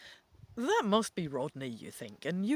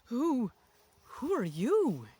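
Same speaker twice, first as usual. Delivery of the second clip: stutter; 5 semitones higher, 4 dB louder, slower than usual. A narrator's reading. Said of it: "you stutter".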